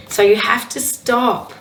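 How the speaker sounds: husky, slightly rough voice. Real, not acted. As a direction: speak through a husky throat. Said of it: "says me with this husky voice".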